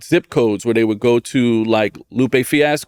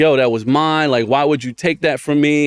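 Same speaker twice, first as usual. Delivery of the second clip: bitter, angry, cursing rant; 3 semitones higher than usual. Retelling cursing out god after losing a promised job: imitating own angry outburst. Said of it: "literally cursing out God".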